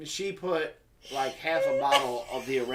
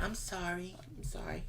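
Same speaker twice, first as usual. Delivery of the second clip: sheepish sorry; 15 dB quieter than usual. Retold or imitated. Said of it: "she's like".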